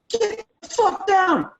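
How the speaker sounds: drawn-out high scream; screamed command. Shown as a demonstration. Lawyer screaming at a jury, high-pitched screamed command. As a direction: scream it like an order at gunpoint. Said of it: "I got to scream".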